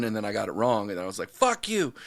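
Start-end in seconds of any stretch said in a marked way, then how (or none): 1.3-1.9 high, loud mock yell of frustration; mock angry outburst. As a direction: snap it out like a sore loser kid. Retold angry outburst as kid.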